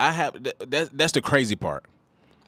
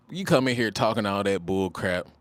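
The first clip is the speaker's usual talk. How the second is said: usual speaking voice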